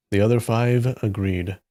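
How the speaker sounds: measured read-aloud with emphatic sentence openings; story narration. A narrator's reading. Reader telling of masters trailing a boy to a cliff, story narration. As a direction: narrate it clearly, lifting the spoken lines.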